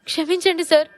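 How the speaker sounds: high, loud desperate begging; pleading. Acted. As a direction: beg for forgiveness. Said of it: "వేడుకోలుగా అన్నాడు".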